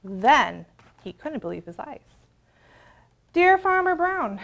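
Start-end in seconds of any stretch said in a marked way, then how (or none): 3.3-4.4 high, loud, slow letter opening; cows' letter voice. Acted. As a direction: announce it like a proud cow.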